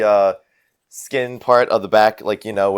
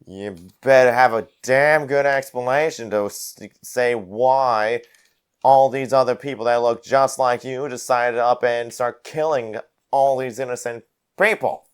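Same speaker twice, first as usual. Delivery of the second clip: lightly voiced, indignant drinking brawler; threatening brawler; 4 semitones higher than usual. Brawler confronting Prescott over killed innocents, lightly voiced threat. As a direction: demand an explanation, drawling the opening.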